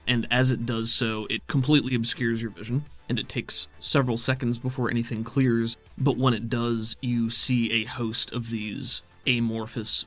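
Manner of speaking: measured scene-setting narration; storyteller voice over the chaos; game master narration. A narrator's reading. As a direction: paint the arena scene for the players.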